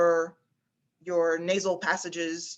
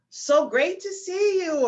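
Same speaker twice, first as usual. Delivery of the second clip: much higher, ringing head voice; head voice demo; 10 semitones higher, 4 dB louder, slower than usual. Shown as a demonstration. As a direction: send it up into the head, slowly. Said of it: "put a one hand or two on your head".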